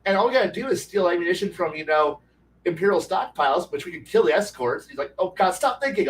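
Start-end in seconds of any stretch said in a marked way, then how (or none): 5.2-6.1 higher-pitched retold exasperation; exasperated plea. Game master fed up with scheming player, exasperated. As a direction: beg the player to quit scheming.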